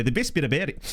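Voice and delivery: a light Australian accent; lazy Australian vowels on the phrase. Real, not acted. Jokingly reading the role in a light Australian accent. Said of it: "That's Australian now".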